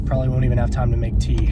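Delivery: put-on quick, light British accent; a hint of British English. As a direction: toss it off in a mock British accent. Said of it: "It sounds so British of me".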